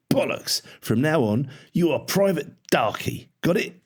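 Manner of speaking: high, angry sergeant's shout; domineering parade-ground bark; bullying drill sergeant. A narrator's reading. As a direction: shout the recruit down. Sergeant abusing and renaming cadet.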